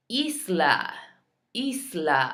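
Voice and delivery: isla as EES-lah, the S pronounced; Spanish isla, EES-lah; every letter sounded. Shown as a demonstration. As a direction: give isla a long EE and clear S. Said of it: "saying every single letter".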